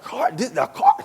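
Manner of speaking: high squeaky "Car?" in stunned disbelief. Retold or imitated. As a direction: yelp it like you can't believe it. Shocked at dealership interview.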